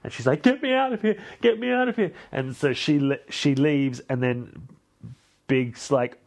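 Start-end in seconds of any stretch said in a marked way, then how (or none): 0.4-2.1 mock faint, high and wailing; melodramatic swooning. Jilted bride begging friends to leave, hammed-up high wail. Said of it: "melodramatic faint thing".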